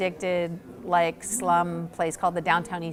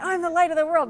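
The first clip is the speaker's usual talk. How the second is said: higher, half-hearted grand proclamation; mock proclamation; 8 semitones higher, 3 dB louder, faster than usual. Rob repeating the prophecy in a higher, mock-grand voice. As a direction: announce it like a newly saved zealot.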